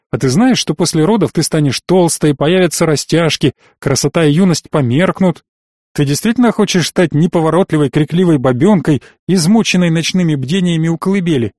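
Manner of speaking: a touch of severity, lecturing; sterner. Acted. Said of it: "Голос стал строже". (голос отца чуть строже и громче)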